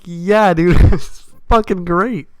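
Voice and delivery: laughing through a cocky yeah, dude; pleased with himself, chuckling as he answers; laughing brag. Retold or imitated. Bragging reply, laughing.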